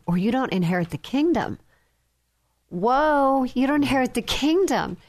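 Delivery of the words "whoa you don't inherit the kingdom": higher, emphatic repeat in amazement; taken aback. Shown as a demonstration. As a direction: repeat it higher, struck by its weight.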